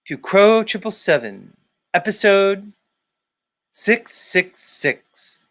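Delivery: lightly hammed-up android-like podcast intro; Jason Lindgren impression. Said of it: "Maybe I could be Jason?".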